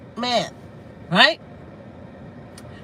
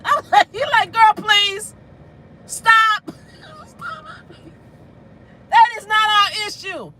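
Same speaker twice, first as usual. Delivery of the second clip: laughing; 11 semitones higher than usual. Real, not acted. Laughing, high-pitched retelling.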